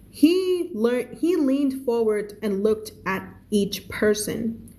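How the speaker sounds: reading the story aloud slowly, word by word; slow, careful read-aloud. A narrator's reading. Teacher reading the story to her student, slow read-aloud.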